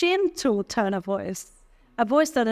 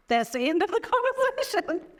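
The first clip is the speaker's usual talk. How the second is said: a touch higher, laughing on the last word; amused; 7 semitones higher, faster than usual. Real, not acted. Teacher repeats the joke to the class with a small laugh. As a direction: chuckle it out as a punchline.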